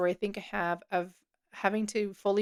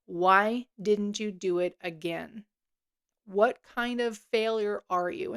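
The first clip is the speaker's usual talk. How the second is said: accusing voice; slower than usual. Retold or imitated. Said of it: "colored very, very heavily with this".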